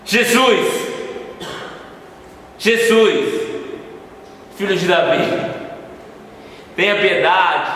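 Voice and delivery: repeated cries for mercy tapering off; shouting then fading. Acted. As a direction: keep calling out, running out of force. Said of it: "Eu gritei".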